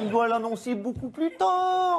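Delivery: lightly voiced Ségolène Royal; a hint of Royal's sweet voice; Ségolène Royal impression. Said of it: "Bonjour Ségolène Royal".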